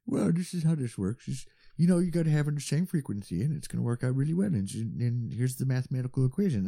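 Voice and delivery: lightly voiced tech nerd; know-it-all nerd explaining. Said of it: "It's my go-to nerd voice".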